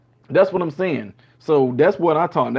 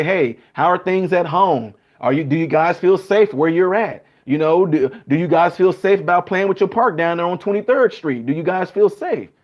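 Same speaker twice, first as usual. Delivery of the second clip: caring officer. Retold or imitated. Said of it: "they'll stop us and say".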